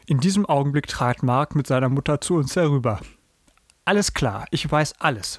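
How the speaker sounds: measured, clearly phrased read-aloud; storyteller reading from a book; story narration. A narrator's reading. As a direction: read the children's story with lively quotes.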